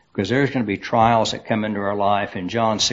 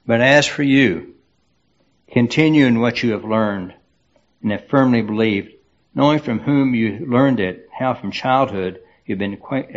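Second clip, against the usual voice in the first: scripture reading. Acted. Pastor reads Timothy passage aloud.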